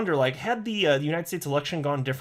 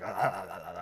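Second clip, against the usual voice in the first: low excited panting like a drooling troll; mock panting grunts; 8 semitones lower, 6 dB quieter than usual. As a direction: pant like someone salivating. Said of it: "like, something like that".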